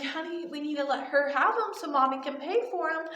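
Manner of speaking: sweet motherly request; sweet mom. Retold or imitated. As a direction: lightly imitate a mother persuading her child. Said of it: "her mom was so sweet".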